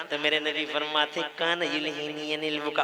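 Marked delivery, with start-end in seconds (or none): 1.2-2.8 1 quoted Arabic saying. Shown as a demonstration. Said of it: "गौर से सुनना".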